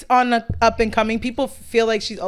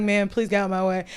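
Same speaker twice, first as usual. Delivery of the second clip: calm; 3 semitones lower, 5 dB quieter than usual. Retold or imitated. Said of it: "he was so calm".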